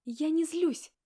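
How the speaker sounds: furious shout, high and loud; angry denial. Acted. Wife yelling at husband in the kitchen, furious. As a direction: snap it back at him, furious.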